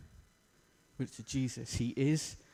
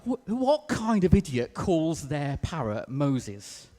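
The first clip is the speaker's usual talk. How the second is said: incredulous burglar; 3 semitones higher, much slower than usual. Acted. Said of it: "And the burglar's like".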